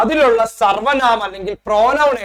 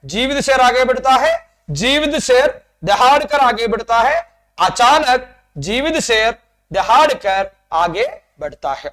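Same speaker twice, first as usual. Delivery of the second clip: slow, deliberate build-up, word by word; building the sentence slowly; 3 semitones higher, slower than usual. Shown as a demonstration. Teacher to pupils, building the Hindi sentence step by step, slow and deliberate. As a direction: spell out the growing sentence for pupils. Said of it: "അപ്പൊ നോക്കിയേ മക്കളെ".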